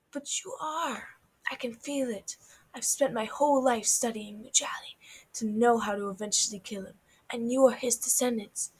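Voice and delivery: hushed, menacing tiger villain. Acted. Tiger villain answers the children.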